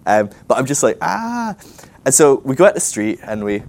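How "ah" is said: high-pitched mock wail of dread; panicked "ah". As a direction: let out a high anxious whine. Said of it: "I was just in this panic state".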